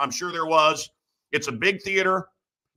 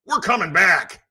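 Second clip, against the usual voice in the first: mock rallying shout; friend's rallying cry; 2 semitones higher, 4 dB louder than usual. Imitating a friend promising a comeback, rallying cry. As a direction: call it out like a retold battle cry. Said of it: "and my friend Ben, uh, says".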